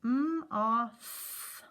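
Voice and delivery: segment each sound clearly; sounding out moth. Shown as a demonstration. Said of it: "put all those sounds together".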